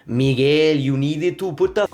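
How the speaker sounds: put-on English with a thick Spanish accent. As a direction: imitate a Spanish speaker's English, pure vowels. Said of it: "have a Spanish accent".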